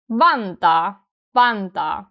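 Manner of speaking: "Vantaa" with a loud VAN; stronger first syllable. Shown as a demonstration. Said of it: "first syllable is stronger".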